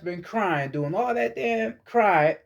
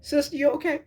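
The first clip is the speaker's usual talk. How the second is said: mock concerned friend; 7 semitones higher than usual. Friends checking on crying sister.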